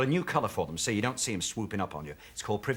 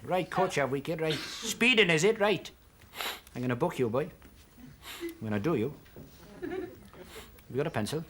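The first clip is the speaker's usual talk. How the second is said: Welsh copper; 5 semitones higher than usual. Retold or imitated. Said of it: "Jones the Speed on his bike".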